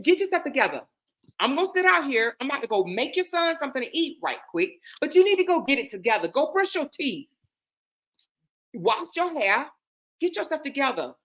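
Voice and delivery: no-nonsense big-sister bossing; rough and firm. Retold or imitated. Telling her friend to clean up, firm rough orders. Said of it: "talk to her in a rough kind of way".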